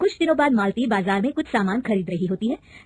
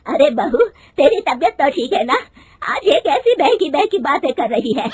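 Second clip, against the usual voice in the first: loud, higher scolding of the daughter-in-law; a mother-in-law scolding her daughter-in-law for wanting a job, loud and angry; 5 semitones higher, 7 dB louder than usual. Acted. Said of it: "उसकी सास गुस्से में कहती है".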